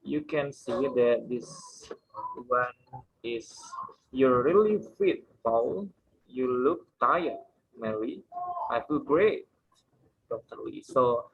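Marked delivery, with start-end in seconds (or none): 4.1-10.9 main stress before the name; sentence stress. Shown as a demonstration. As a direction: stress the key word, drop on the name. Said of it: "this is the place that you need to put the main stress".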